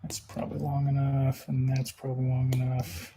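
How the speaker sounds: distant laptop mic sound; off-mic in the garage. Real, not acted. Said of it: "Why is he sounding weird?".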